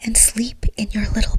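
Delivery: plain reading voice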